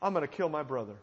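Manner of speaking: low, soft, sinister inner voice; quiet menace from the brother who plots; Cain's dark thought. Acted. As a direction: say it like a secret plan to murder. Preacher voices Cain's murderous thought.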